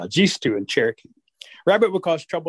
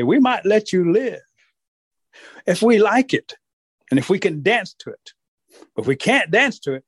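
threatening wolves; 6 semitones higher than usual. Acted. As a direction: lay down the terms.

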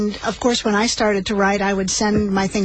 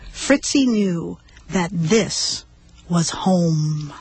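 gentle storybook reading voice; story narration. A narrator's reading. Host listening as she reads the dog story, gently. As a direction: read a children's story aloud on the radio.

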